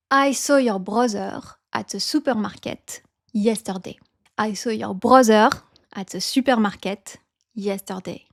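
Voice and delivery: French accent, weight on the end of BROTHER; YESTERDAY stressed on its final DAY; group-final stress. Shown as a demonstration. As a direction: lean on the last syllable of SUPERMARKET. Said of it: "You stress always the last syllable".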